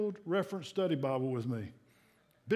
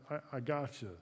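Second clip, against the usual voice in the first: softer and lower, fading; God's quiet reassurance, fading softer; soft whisper; 5 semitones lower, 8 dB quieter than usual. Acted. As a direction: tuck it in like a lullaby. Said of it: "God could whisper in our heart".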